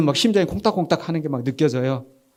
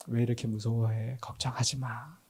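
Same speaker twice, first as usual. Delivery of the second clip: very soft, lowered, soothing voice; tender reassurance; 4 semitones lower, 11 dB quieter than usual. Acted. Jesus reassuring his fearful disciples, tender and hushed. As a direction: comfort them quietly. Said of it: "우리 주님이 원하시는 게 아마 이런 모습".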